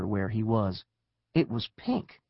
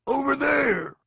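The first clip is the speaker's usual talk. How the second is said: high, raised call; rider's cry; 13 semitones higher, 4 dB louder than usual. A narrator's reading. Lizard rider pointing to the tree, high cry. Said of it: "cried a lizard rider".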